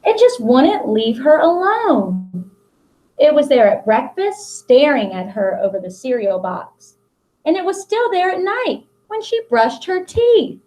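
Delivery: put-on reading a picture book aloud to children; expressive picture-book read-aloud; storybook narration. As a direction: tell the story to the class with long pauses.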